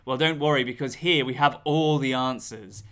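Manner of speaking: theatrical horror host voice. Acted. Spooky horror host intro.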